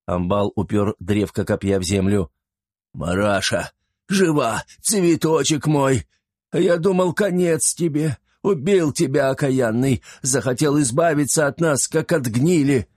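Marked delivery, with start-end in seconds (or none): 2.9-12.9 emotional peasant husband. Acted. Husband sees wife alive.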